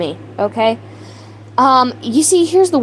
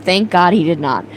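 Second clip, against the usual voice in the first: laughing; 6 semitones lower than usual. Real, not acted. Laughing while reading chat.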